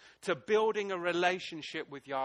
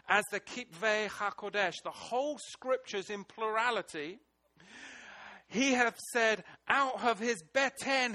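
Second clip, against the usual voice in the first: fervent scripture reading; 4 semitones higher, 4 dB louder than usual. Real, not acted. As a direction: proclaim the verse.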